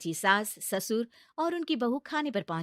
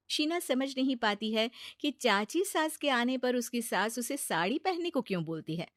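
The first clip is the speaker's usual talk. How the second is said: ordinary talk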